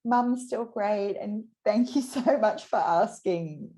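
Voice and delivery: retold heartfelt thanks, lightly done; touched gratitude. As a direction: thank her kindly and moved. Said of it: "I was like".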